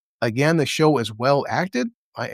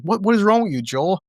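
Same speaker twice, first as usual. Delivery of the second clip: mild mock yell, pitched high; retold yell; 6 semitones higher than usual. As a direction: imitate an indignant yell, starting high. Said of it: "She yells at Joel".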